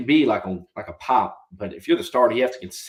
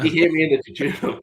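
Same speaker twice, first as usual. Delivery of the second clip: hammed-up Semi-Pro quote; 6 semitones higher than usual. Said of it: "he talks about".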